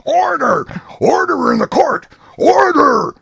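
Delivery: high, loud call for order; yelling. A narrator's reading. Sheriff yells over the courtroom uproar, high and loud. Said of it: "the sheriff yelling".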